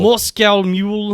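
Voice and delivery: slow practice in mock Russian; Russian accent. Shown as a demonstration. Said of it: "can do a Russian voice".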